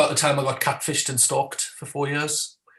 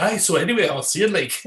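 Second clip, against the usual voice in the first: put-on Scottish accent; 4 semitones higher than usual. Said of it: "when you hear them interviewed, they go".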